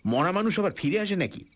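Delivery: a jailer dismisses the prisoners' panic; stern scolding. Acted. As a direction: brush off the ghost story with a harsh scold. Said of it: "জোর ধমক দিলাম".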